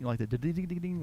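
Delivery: imitated ding effect. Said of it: "that little effect that you can do".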